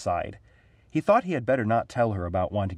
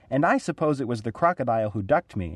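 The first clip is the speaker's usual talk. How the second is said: usual speaking voice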